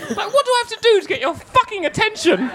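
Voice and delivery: high exasperated laughing complaint; laughing fake indignation, pitched high; mock outrage. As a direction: ham up being ignored. Mock outrage at being ignored.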